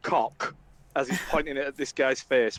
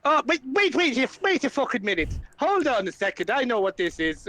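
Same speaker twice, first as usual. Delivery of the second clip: higher, alarmed; sudden suspicious realization; 7 semitones higher than usual. Acted. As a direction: catch on to the trick. Flynn realizes it's a trap.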